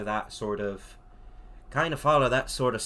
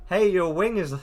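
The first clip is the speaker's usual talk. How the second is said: character voice; 8 semitones higher, 7 dB louder than usual. Acted. Reading dialogue in a voice.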